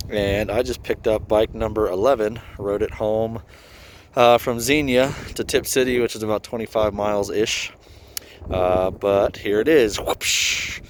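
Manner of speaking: muffled behind a face mask; talking through a mask. Real, not acted. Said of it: "I apologize if I sound muffled. I'm wearing a mask".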